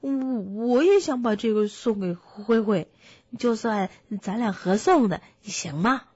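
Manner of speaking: lightly voiced piglet with a stammer; timid piglet, hopeful. Piglet asks to share the honey gift, stammering. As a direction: stumble into a hopeful request.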